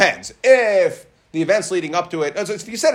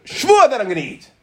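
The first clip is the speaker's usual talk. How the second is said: insistent refusal; 4 semitones higher, faster than usual. Acted. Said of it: "Person says".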